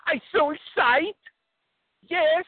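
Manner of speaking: put-on high Kazakh-accented Borat voice; broken-English Borat, Kazakh accent. Caller phones the radio hosts as Borat, Kazakh accent. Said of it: "my name is, uh, Borat".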